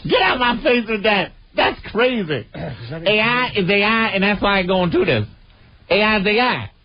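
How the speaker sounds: a mock of the clip's outraged woman. Mimicking the interviewed woman.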